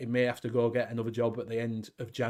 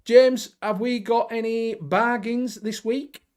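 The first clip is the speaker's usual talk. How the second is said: high, slow, loud show-host call; hammed-up presenter handing over to James; show host announcer; 10 semitones higher, 5 dB louder, slower than usual. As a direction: boom it out like a cheesy game-show host. Host introduces bargains segment.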